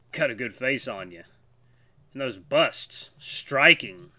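lightly drawled Southern husky; a hint of a Southern accent; easygoing Southern accent, lightly done. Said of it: "doing, like, a southern accent for him".

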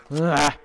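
short, loud "ah" cry; sudden yelp. Real, not acted. Player reacting mid-game, sudden yelp.

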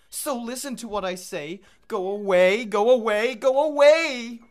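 high, loud, panicked cry building to a long scream; frightened go-away bird. Acted. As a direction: shriek them off in fear.

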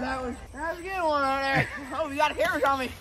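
after laughing hard. Real, not acted.

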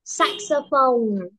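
saxophone drawn out very slowly; slow model word. Shown as a demonstration. Teacher modelling saxophone for repetition. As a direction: stretch saxophone for the class to copy. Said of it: "repeat after me".

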